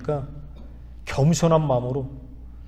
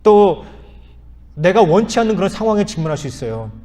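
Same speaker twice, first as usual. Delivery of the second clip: louder, higher preaching emphasis; 4 semitones higher, 5 dB louder than usual. Real, not acted. Preacher to congregation, rising to a louder call. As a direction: lift the congregation with it.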